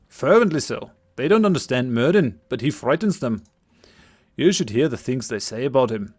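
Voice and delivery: put-on lightly overdone Scottish accent; a young villager's Scottish lilt. Game master voicing Cillian to the party, Scottish accent. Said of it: "my attempted Scottish accent".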